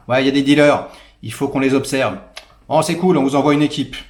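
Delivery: imitation légère de flics pressés et sûrs d'eux; flics enthousiastes. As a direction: jouer le flic de série qui fonce sans réfléchir. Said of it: "qui font". (flic de série classique, ton décidé et enjoué)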